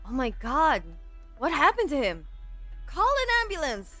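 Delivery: high-pitched alarmed cry for help; panicked cry. Acted. Bystander panics over collapse.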